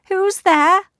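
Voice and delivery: put-on high, loud old granny voice; old grandmother. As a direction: call frail from bed. Frail grandmother voice.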